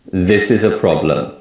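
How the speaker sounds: "This" and PROB- of "problem" strong, "is a" weak; English sentence stress. Shown as a demonstration. Teacher showing learners English stress timing, stressing "This" and PROB- in "problem". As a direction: stress on "This" and the first syllable of "problem". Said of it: "more emphasis on the word this".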